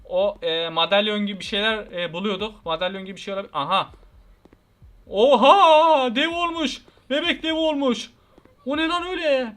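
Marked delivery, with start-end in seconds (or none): 5.1-9.5 loud, high cry of disbelief; shocked shout. Real, not acted. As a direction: yell it out, stunned by what you see. Baby has turned giant.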